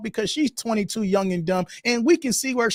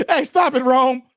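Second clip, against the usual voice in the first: mock scolding; 5 semitones higher, 4 dB louder than usual. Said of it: "Rome says".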